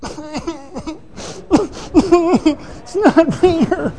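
high mock whine with a laugh in it; little inner voice. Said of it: "the quiet little voice goes".

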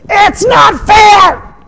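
very high, slow, drawn-out protesting shout; flesh shouting. Acted. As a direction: cry out the injustice at full pitch. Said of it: "something in you says".

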